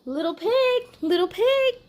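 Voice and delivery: sly wolf narrator telling his side; wolf storyteller. Acted. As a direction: read it as the innocent wolf pleading his case.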